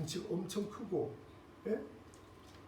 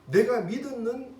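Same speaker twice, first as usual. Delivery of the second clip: slow emphatic promise; 5 semitones higher, 8 dB louder, much slower than usual. Retold or imitated. Preacher voices God's promise.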